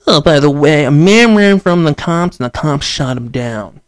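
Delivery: lightly voiced offhand newscaster; mock news anchor. News anchor dropping the story in passing, offhand mock tone. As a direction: toss off the headline like a casual anchor. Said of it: "the news be like".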